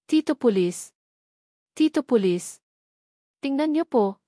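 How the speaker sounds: put-on a small boy calling out proudly to the policeman; excited child. A narrator's reading.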